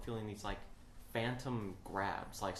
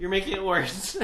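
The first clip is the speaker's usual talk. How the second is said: louder, higher protest; complaining quote; 8 semitones higher, 10 dB louder than usual. Retold or imitated. Scared kid talking back to guide, loud protest. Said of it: "And I'm like".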